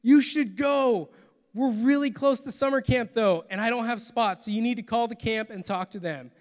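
lightly voiced enthusiastic youth pastor; eager youth pastor. Youth pastor encouraging the teen, lightly voiced and eager.

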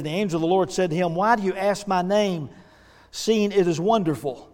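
scripture read aloud to a congregation; narrative reading voice. Real, not acted. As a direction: tell the Bible story as a narrator. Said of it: "best narrative kind of voice".

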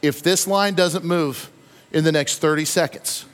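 mock dying of impatience, drawn out; hammed-up despair. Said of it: "And I said to my wife".

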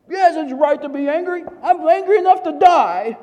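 high, loud, strained outburst of fury; hammed-up angry prophet shouting back at God; angry Jonah. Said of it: "And Jonah says".

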